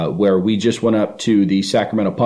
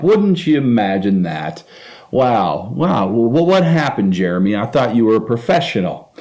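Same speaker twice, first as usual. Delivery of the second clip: sarcasm; 3 semitones higher than usual. Retold or imitated. Sarcastically mocking friend who vomited.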